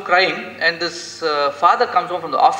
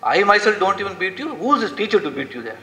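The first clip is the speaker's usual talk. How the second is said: higher, indignant father scolding; agitated father; 5 semitones higher than usual. Retold or imitated. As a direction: act out an irritated dad, pitch raised. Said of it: "He's very agitated".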